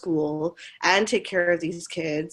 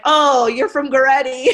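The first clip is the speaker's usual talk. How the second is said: mock realization; 6 semitones higher, 8 dB louder than usual. Mocking student recognition.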